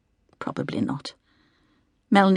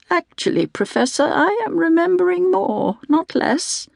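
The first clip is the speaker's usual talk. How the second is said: insistent, higher; 12 semitones higher than usual. A narrator's reading. Patient insists to neurologist.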